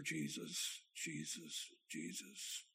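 hushed, repeated whisper. Retold or imitated. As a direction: drop to a soft whisper, fading further on each repeat. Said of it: "I just began to whisper".

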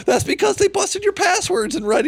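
loud, high exasperated scolding of Josh. Real, not acted. Host calling out Josh over his leaked chats, loud and exasperated. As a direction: shout it at him, laughing in disbelief.

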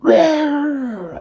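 high, loud squealing roar of pain; monkey roar. A narrator's reading. Giant monkey roaring after a punch in the eye. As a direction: bellow it out like a hurt beast. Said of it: "The monkey went".

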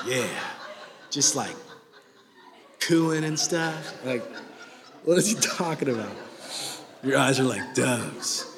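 laughing. Real, not acted. Laughing at dove compliment.

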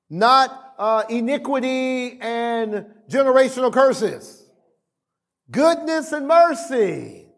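high, insistent declaration; impassioned preaching. Real, not acted. Preacher teaching the congregation what to say, impassioned preaching. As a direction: preach it as a confession to repeat.

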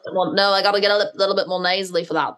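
a lightly put-on Liverpool accent like a singer's; Liverpool singer accent. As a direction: try to sound like a famous singer, half-joking. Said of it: "I try talking like a singer".

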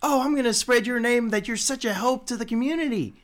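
high, eager little squirrel voice; squirrel person voice. Acted. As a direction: chirp it up like a grateful squirrel.

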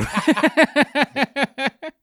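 high, loud burst of laughing; helpless laughter. Real, not acted. Co-hosts laughing at the bedroom impression, helpless laughter. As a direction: crack up completely.

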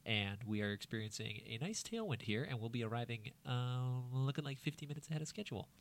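soft, laid-back pilot over the intercom; lightly voiced captain announcement.

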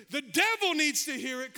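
punched loud on devil; rising preacher emphasis. Real, not acted. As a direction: hit "devil" hard. Building declaration.

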